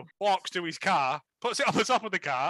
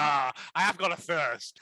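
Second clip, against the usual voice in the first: laughing mock line; 3 semitones lower than usual. Imitating the mum eyeing claret, laughing. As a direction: chuckle through a mock line. Mocking character eyeing wine.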